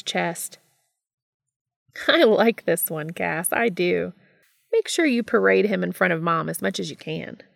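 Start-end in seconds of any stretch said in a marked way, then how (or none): 2.1-7.4 a hint of a gleeful brother, approving; louder start, relishing it; lightly voiced Gabriel, delighted.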